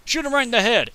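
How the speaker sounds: loud, high-pitched urgent exclamations; excited alarm. Real, not acted. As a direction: yell orders at the game as a zombie rises. Reacting to corpse rising in game.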